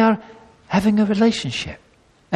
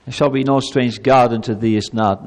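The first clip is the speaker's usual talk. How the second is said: much lower, cold decree; stern commanding God; 7 semitones lower than usual. Shown as a demonstration. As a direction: hand down the law like a harsh judge. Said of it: "That's not how God speaks".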